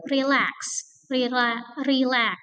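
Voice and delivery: relax, LAX stressed. Shown as a demonstration. Teacher models verb stress on relax. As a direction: punch LAX. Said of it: "stress on the second syllable".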